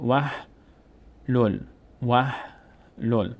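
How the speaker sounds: syllable-by-syllable model of وح لول; silent connecting alef. Shown as a demonstration. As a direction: read وح لول as "wah... lol" with no alef. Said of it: "اینجا وسط خوانده نمیشه".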